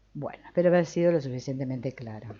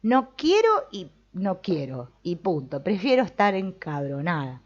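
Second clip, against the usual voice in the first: loud mock stubborn "no quiero"; mock stubborn refusal; 3 semitones higher, 4 dB louder than usual. Teacher voicing stubborn student, mock defiant. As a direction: dig in your heels, half-joking. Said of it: "y decir".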